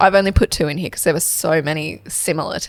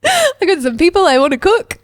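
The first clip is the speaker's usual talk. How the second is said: creepy voice; 11 semitones higher, 4 dB louder than usual. Pretend. Jokingly voices creepy niece.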